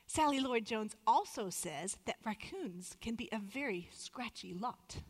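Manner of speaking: a playful mock British accent, slowing at the end. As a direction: quote the four-year-old in a so-so British accent. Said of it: "usually in our best British accent".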